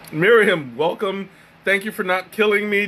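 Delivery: strained throat after choking; recovering from a choke; coughing up water. Real, not acted. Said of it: "it went down the wrong pipe".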